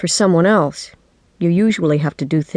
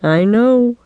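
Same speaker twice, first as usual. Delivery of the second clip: higher, self-satisfied reply; smug; 6 semitones higher, 3 dB louder than usual. A narrator's reading. Dad accepts his child's congratulations, smug. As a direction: draw it up smugly. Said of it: "he said smugly".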